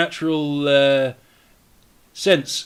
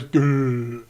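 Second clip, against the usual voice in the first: dying grunt. Acted. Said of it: "all of a sudden he goes".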